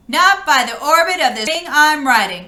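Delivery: loud, sturdy defiance; stout cry. Acted. Gork refusing the robot from his satellite, stoutly. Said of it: "cried Gork stoutly".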